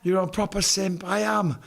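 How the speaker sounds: lightly mocked Yorkshire accent. Shown as a demonstration. Demonstrating how people talk back home, Yorkshire accent. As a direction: say it like a Yorkshire local. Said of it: "they actually talk like this".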